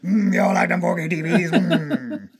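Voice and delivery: put-on Cajun-tinged Southern good ol' boy; hint of Cajun. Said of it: "has a hint of Cajun on top".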